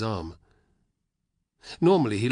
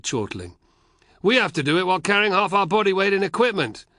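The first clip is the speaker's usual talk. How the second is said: higher, louder laughing legionaries; mock the boy who gambled his horse; jeering soldiers; 6 semitones higher, 5 dB louder than usual. Soldiers' banter.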